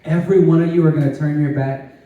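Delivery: calm a frightened friend with love; loving reassurance. Retold or imitated. Jesus reassuring the disciples, gentle and loving. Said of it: "in so much love and grace and mercy".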